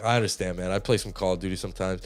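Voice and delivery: low, soft, understanding voice; chill neighbour. Retold or imitated. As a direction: reassure like an easygoing neighbour. Voices the chill neighbour consoling him.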